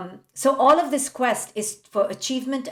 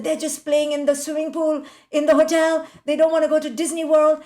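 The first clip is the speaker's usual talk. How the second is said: higher, louder, fast exasperated complaint; agitated complaint; 5 semitones higher, 4 dB louder, faster than usual. Retold or imitated. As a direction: rattle it off like a fed-up mother. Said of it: "She was very agitated".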